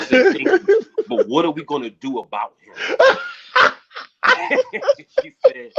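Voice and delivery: high, loud words breaking into laughter; amused disbelief at the manager; laughing at the story; laughing retelling. Real, not acted. Retold talk with management.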